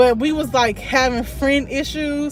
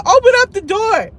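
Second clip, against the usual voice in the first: higher, louder mock order; raised-voice retold command; insistent retold demand; 8 semitones higher, 6 dB louder than usual. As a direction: imitate demanding that a door be opened. Retold demand to open the door.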